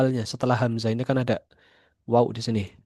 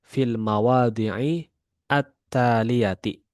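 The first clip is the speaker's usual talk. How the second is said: slow reading; much slower than usual. Shown as a demonstration. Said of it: "reads rule slowly".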